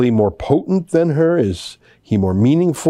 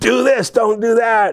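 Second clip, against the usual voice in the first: play-acted, very high-pitched shouting; 10 semitones higher than usual. Watching grainy video from afar, the speaker reenacts retelling shouting into phone. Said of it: "I'm shouting in the cell phone".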